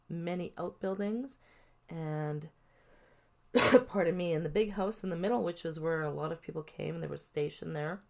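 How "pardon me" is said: coughing, clearing throat; choking on a drink. Real, not acted. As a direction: cough then pardon me. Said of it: "I'm choking".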